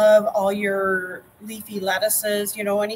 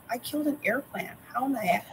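mock dismay; 3 semitones higher, 6 dB quieter than usual. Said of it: "I was like".

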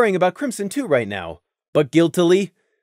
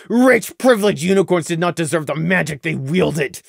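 plain reading voice

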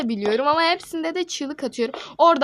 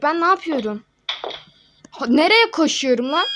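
higher, louder panicky questions; panicked; 4 semitones higher, 6 dB louder than usual. Real, not acted. Player fleeing in panic, loud and flustered. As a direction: panic while running.

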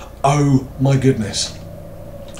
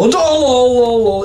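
high giddy; 9 semitones higher, 4 dB louder, slower than usual. Real, not acted. Laughing it off while scared.

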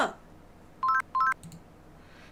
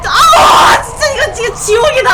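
very loud, high, laughing wail; screaming in gamer despair; frustrated scream; 4 semitones higher, 9 dB louder than usual. Real, not acted. Stuck on swing, screaming. (절규하는 비명)

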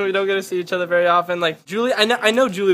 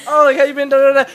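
high, loud chit-chat imitation; mock small talk; 8 semitones higher, 9 dB louder, faster than usual. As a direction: rattle off empty pleasantries, high and loud. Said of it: "we're just like".

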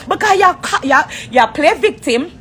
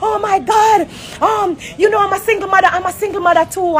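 higher mock yell; mock screaming; 5 semitones higher than usual. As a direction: ham up a rival screaming at a gala, pitched higher. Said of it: "I scream down the place".

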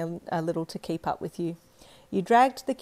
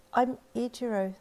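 put-on shy boy; 5 semitones higher than usual. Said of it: "the boy replied shyly".

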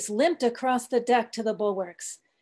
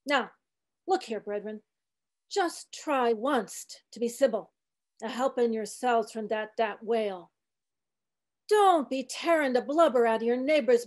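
put-on old cook preaching gently; 3 semitones higher than usual. Old cook coaxing the sharks in a gentler sermon.

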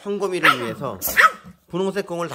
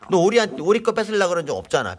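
scolding; 3 semitones higher, 4 dB louder than usual. Real, not acted. Scolding panda for bullying.

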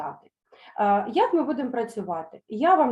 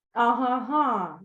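put-on slow, nodding "ага-га" of gossiping young mares; drawn-out agreeing ага-га; young mares nodding along; knowing agreement; 2 semitones higher, much slower than usual. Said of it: "закивали молоді кобили".

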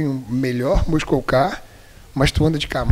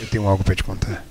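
much lower, seductive sensual voice; 8 semitones lower than usual. Shown as a demonstration. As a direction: drop into a low sultry sensual tone. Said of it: "Deixa eu até botar minha voz sensual aqui".

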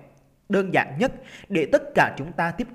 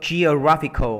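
"geographical" with the beat on GRAPH; light O, strong third syllable in "geographical"; stress on third syllable; 4 dB louder than usual. Shown as a demonstration. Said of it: "Rồi âm ba. Thì mình sẽ đọc như vậy này".

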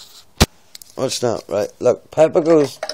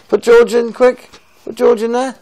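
mock urgent hurry; 4 semitones higher, 5 dB louder than usual. Dad playfully hurrying toddler.

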